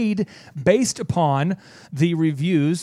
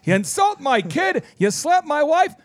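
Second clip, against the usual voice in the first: hammed-up indignant rant, pitched higher; mock offended owner; 5 semitones higher than usual. Offended website owner ranting at the business coach, mock outrage. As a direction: act wounded and outraged, over the top.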